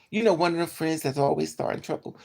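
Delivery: usual speaking voice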